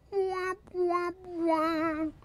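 very high womp-womp noise; mock sad trombone. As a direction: imitate a failure jingle in a high voice.

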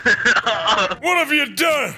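dramatic slow shout. Pretend. Dramatic cry.

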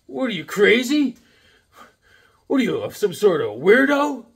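a woman turning down a date; mock rejection. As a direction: scoff at him like the girl did. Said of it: "woman rejects him".

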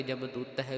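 ਜਮ ਦੂਤ ਹੈ ending in a soft dental "-teh"; final "teh" sounded. Shown as a demonstration. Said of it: "ਤਹਿ ਲਗਾ ਕਰਕੇ".

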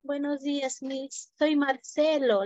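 put-on a frightened new boy whispering to the teacher; a touch of fear, voice dropping away; timid and scared. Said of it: "todo cohibido, con miedo".

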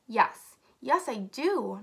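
eager, emphatic agreement; lightly acted excitement; excited. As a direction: agree excitedly, stretching the words. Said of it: "said excitedly".

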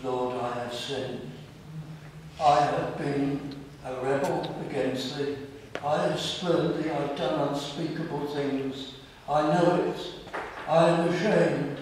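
contrite prayer. Retold or imitated. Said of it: "we come into his presence and we say, and we feel it".

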